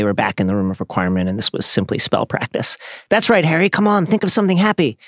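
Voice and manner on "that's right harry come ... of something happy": much higher, lifted coaxing; encouraging. A narrator's reading. Luna urging Harry to find a happy thought, encouraging. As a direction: urge him on supportively in a high voice. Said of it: "said Luna encouragingly".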